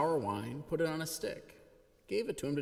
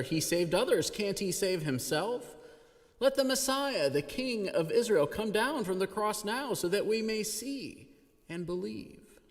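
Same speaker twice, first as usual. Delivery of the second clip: louder, higher scornful jeering; mocking; 8 semitones higher, 3 dB louder than usual. A narrator's reading. Chief priests scoffing among themselves, loud scornful mockery. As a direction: taunt him with mock piety. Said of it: "were also mocking him".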